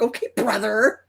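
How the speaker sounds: lightly teasing echo, rising at the end; mocking brother. Sister making fun of her brother, mildly mocking. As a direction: throw the sibling label back teasingly. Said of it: "make fun of him".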